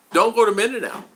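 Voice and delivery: high, emphatic imitation of online naysayers; retold warning. Other vloggers warning people online, mimicked in a high, insistent voice. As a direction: pitch it up like people warning him off. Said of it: "so many people tell me".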